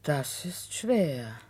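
whisper. Acted. Housekeeper warns him it is hard to make amends, whispering. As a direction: let it die away to a breath.

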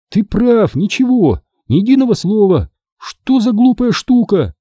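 put-on high, irritated girl's voice; Sherry fed up and angry. A narrator's reading. Sherry angrily gives the camera back, high irritated voice. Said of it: "гневно добавила она".

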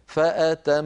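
فأتمهن with both nasal ghunnas held the same length; equal ghunna. Shown as a demonstration. Teacher demonstrating equal ghunna on فأتمهن to students. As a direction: hold the mim and nun alike. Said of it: "هكذا".

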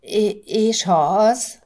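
slow, stammering question; faltering timidly. Acted. Wife timidly asking her husband, stammering. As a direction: stumble out the words hesitantly. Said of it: "rebegte Erika".

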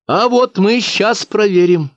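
a teacher announcing to the whole crowd; deliberately loud. Acted. Katya speaks up loudly so all the villagers hear. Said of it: "специально громко, чтоб все слышали".

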